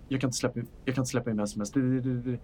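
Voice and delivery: nervous stammer. Acted. Frightened character refuses, stammering.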